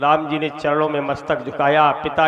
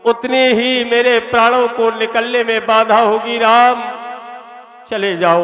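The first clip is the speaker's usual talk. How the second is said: grieving father; 4 semitones higher than usual. Acted. Dying Dasharatha tells Rama to leave, mild anguished cry. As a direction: send him away in lightly voiced anguish.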